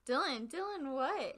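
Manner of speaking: calling Dylan's name to wake him, half-mock; calling him awake. Girlfriend waking laughing Dylan, retold loud urgent call. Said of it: "I'm like".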